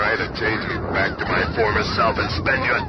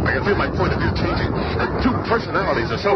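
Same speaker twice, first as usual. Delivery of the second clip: rising strain; 6 semitones higher, faster than usual. Acted. Ben changing as serum works.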